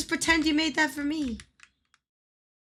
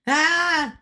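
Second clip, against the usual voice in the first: short, raised cry; short yelp; 3 semitones higher, 6 dB louder than usual. Real, not acted. Gamer reacting to the screen, short yelp. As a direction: let out a sudden loud "ah". Sudden cry during gameplay.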